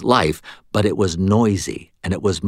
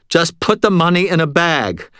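commanding; 9 semitones higher, 4 dB louder than usual. A narrator's reading. Robber orders cashier.

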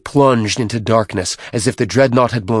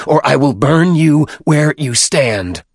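higher, raised-voice threat; fierce, heightened warning; screamed threat; 5 semitones higher, 4 dB louder than usual. A narrator's reading. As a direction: threaten forcefully at near-shouting pitch. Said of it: "he screamed".

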